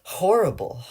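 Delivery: high, loud and upset; fighting panic as she explains; distressed. A narrator's reading. Frightened wife telling police, high and distressed.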